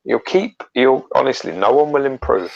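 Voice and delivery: high-pitched mock fan praise; mock encouragement. Co-host parodying people praising bad fan art, mock encouragement. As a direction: gush it high, in jest.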